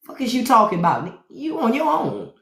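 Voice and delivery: high, fast, hushed backing out; lightly hammed-up panic about the big Texan; mock scared refusal. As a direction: squeak out of the fight. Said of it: "I said".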